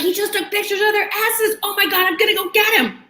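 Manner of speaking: high, shouted outrage; outraged yelling. Retold or imitated. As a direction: shout it in shocked fury. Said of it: "I'm yelling".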